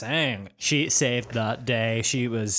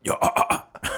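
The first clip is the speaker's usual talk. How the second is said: vocal fry. Retold or imitated. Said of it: "vocal fry I'm doing to imitate a band".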